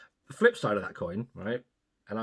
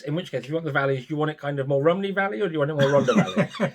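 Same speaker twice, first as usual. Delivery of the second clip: laughing through; 4 semitones higher, 3 dB louder, faster than usual. Real, not acted. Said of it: "listing Welsh accents".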